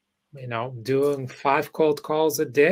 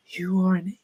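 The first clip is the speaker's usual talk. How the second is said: mock self-scold; 6 semitones higher, 5 dB louder than usual. Mock self-insult retold.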